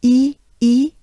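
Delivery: "E" with a wide smile, a bright French é; banana smile E. Shown as a demonstration. Teacher showing the banana smile E. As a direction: spread the lips wide for "E". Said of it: "two banana smiles".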